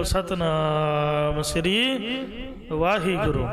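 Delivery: drawn-out devotional call, held long; slow, sustained chant-like invocation; congregational call. Shown as a demonstration. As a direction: stretch the vowels as if leading the congregation. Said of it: "ਗੱਜ ਕੇ ਕਹੋ".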